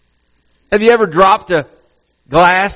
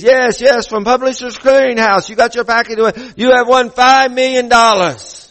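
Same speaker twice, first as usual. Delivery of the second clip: imitated Asian-sounding caller, pitched higher; Asian-sounding accent; 5 semitones higher than usual. Publishers Clearinghouse caller announcing a prize, imitated Asian-sounding accent. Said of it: "has an Asian-sounding accent".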